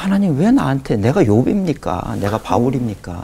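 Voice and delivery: pastor's retold prayer complaint about his illness, a pleading lament; anguished complaint to God. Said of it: "이걸 안 없애주시니 그게 뭐 너무 괴로운 거예요".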